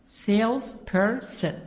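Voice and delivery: "Salesperson" in three distinct parts, sales-per-son; syllable by syllable. Shown as a demonstration. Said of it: "Three parts. Three syllables".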